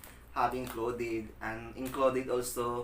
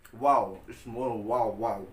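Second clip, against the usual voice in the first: slow, loud, amazed wow; excited; 6 dB louder, slower than usual. Real, not acted. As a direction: savor it with real delight. Tasting the garlic sauce.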